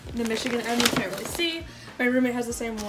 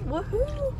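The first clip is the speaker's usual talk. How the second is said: excited cheer; 12 semitones higher than usual. Real, not acted. Cheering at post office.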